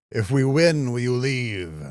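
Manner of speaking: calling out. Acted. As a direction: call a question over to the enemy. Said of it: "Go yell at him".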